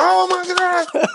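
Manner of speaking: drawn-out, very high mock squeal; long high retold squeal; imitated crowd uproar. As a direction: imitate everyone screaming at once, without full volume. Everybody starts going, crowd imitated.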